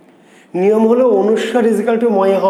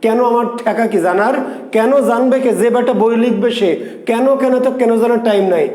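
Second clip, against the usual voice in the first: higher-pitched, lightly indignant student retort; mock defiant student; 4 semitones higher than usual. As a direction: play a student who refuses to care why. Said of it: "বলছে". (বিরক্ত ছাত্রের নকলে পাল্টা জবাব)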